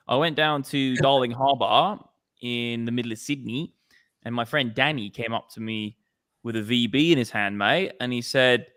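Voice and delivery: Aussie yarn with lifted phrase endings; lightly hammed-up Australian accent. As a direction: tell it as an Australian storyteller. Australian accent bit telling a yarn.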